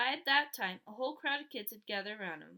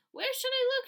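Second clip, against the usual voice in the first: panicked question; 14 semitones higher, 8 dB louder than usual. A narrator's reading. Panicked girl asks.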